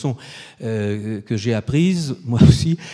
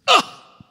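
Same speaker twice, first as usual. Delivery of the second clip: a much higher, loud gasp of dismay; shocked cry; 6 dB louder than usual. Retold or imitated. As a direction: yelp as if struck by bad news. Umberto Eco apprend le choix. (cri de stupeur très aigu)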